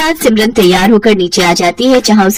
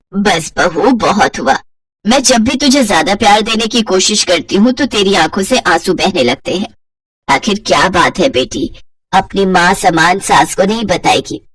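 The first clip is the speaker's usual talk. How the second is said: lower, gentle questioning; tender mother-in-law; 3 semitones lower than usual. Acted. Kamla gently asks her crying daughter-in-law, tender lower voice.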